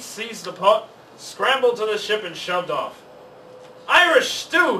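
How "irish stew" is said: loud, high disappointed holler. A narrator's reading. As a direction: holler it as the lid comes off. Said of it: "he hollered".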